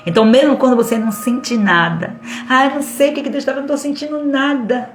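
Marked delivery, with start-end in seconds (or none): 2.5-4.9 mock complaint. Mimicking a believer who feels nothing.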